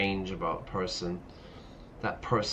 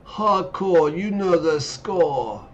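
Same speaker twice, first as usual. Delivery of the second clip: high excited chant; hyped; 8 semitones higher, 7 dB louder, slower than usual. Pretend. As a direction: hype it up like a slogan. Mimicking the hardcore catchphrase.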